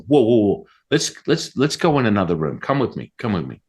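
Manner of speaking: retold flustered urgency, dropping off at the end; mildly acted panic, falling to a hush; freaking out. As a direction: imitate someone rattled, hustling you out. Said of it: "like, freaking out, going".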